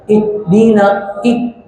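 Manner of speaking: "ihdina" with the h choked into a hard stop; pressed like hamzah. Shown as a demonstration. Teacher warning against hamzah, pressed and stopped. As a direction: cut the breath after i in "ihdina". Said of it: "ditekan, nggak boleh".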